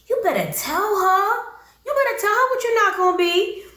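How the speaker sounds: high-pitched hype from the sidelines; egging him on. Pretend. Viewer egging Usman on to tell her off, high-pitched hype. Mock cheering on the fed-up boyfriend.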